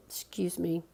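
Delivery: breathy whispered apology. Real, not acted. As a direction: whisper it after a coughing fit. Hushed apology after coughing.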